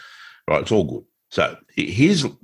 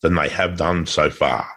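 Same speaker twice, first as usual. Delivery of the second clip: poem recital. Pretend. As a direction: recite it like an old epic ballad. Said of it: "I wrote it in the style of Lord Babington Macaulay".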